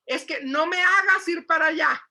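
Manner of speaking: loud mock threat to a child; scolding parent. Mother threatening her child from across the house, loud scolding. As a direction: bark it like a fed-up mother.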